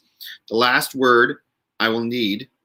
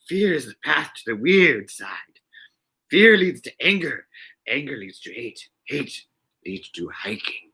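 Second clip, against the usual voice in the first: Yoda voice. Retold or imitated. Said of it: "best Yoda impression I've ever done".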